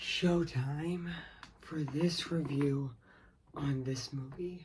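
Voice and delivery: very soft, slow character voice. Reviewer opening his movie review, talking in his Mister Wolf voice. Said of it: "I'm actually talking mo- with my Mister Wolf voice again".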